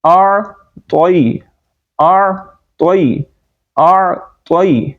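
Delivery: "اعطی-" very slow, throaty ayn, pause, heavy t; correct articulation. Shown as a demonstration. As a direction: split "اعطی-" into two deliberate full syllables. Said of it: "اعطینا نہیں بلکہ اعطینا".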